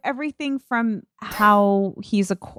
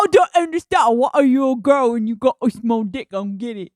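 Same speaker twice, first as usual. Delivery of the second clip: mock Tate; 3 semitones higher, faster than usual. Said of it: "He's like".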